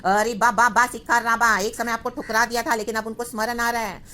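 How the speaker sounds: insistent preacher, opening loud; impassioned preaching. Real, not acted. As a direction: preach it out with rising fervour. Forceful preaching, voicing regretful church people. (जोश भरा प्रवचन)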